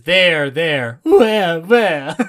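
confused mock search. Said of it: "one of my favorite Mel Brooks jokes".

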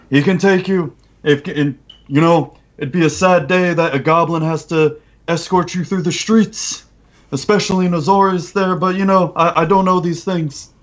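high goblin voice; goblin boss explaining. Acted.

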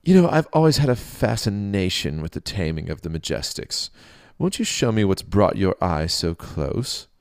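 curious booming king. Acted. King voiced in story.

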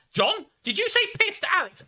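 very high, loud mock-mum voice; hammed-up squeaky telling-off; outraged mum. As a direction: shriek it like a scandalised mother. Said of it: "And then mum comes in and says".

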